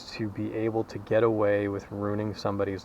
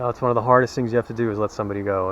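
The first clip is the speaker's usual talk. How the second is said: hammed-up stock line; 6 dB louder, faster than usual. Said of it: "and I'm saying".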